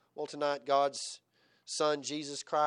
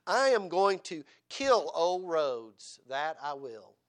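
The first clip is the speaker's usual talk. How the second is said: put-on boy's solemn vow; 2 semitones higher, 6 dB louder, much slower than usual. Boy Charles vows to grandfather.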